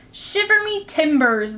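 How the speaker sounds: a hint of a salty old pirate; lightly voiced pirate. Pirate marvels to the boy, lightly voiced. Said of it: "the pirate said".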